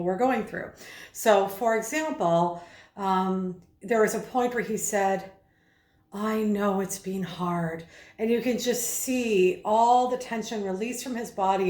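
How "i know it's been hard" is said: slower, gentle, compassionate; soft and gentle. Shown as a demonstration. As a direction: soften into understanding. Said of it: "a softness in his voice".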